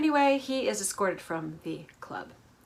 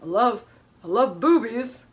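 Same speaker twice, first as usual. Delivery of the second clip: mock Michael; 2 semitones higher, 4 dB louder than usual. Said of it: "he's like".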